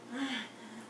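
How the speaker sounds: soft, worn-out exhale; weary sick sigh. Retold or imitated. Coming out of the bathroom faking illness, weary sick sigh. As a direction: sigh as if you just threw up. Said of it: "I just look awful".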